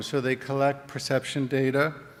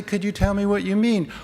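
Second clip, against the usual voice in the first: curious question; 6 semitones higher, 4 dB louder than usual. Shown as a demonstration. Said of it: "Or you could say".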